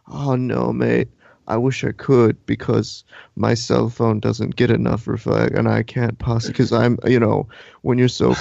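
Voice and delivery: lightly mocking imitation of a friend; Nick. Friend smugly declines to help with directions, lightly mocked. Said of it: "he literally was just like".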